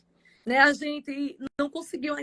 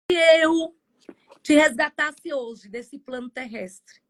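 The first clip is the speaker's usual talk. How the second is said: voice of God. Retold or imitated. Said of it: "o Senhor começa a falar comigo".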